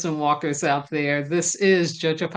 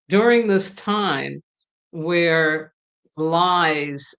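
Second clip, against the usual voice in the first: invocation prayer. Acted. Host leads viewers in an invocation prayer, earnest and solemn. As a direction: call on the ancestors like a prayer leader.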